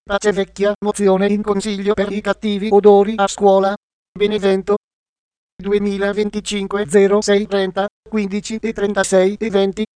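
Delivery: text-to-speech voice reading the news; even, computer-read news report; synthetic news voice. Real, not acted. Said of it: "sintesi vocale Voce Viva".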